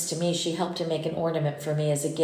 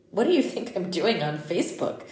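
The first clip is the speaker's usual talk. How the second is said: disbelieving question; can't believe he's asking; incredulous; 2 semitones higher than usual. Acted. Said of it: "I said, incredulous".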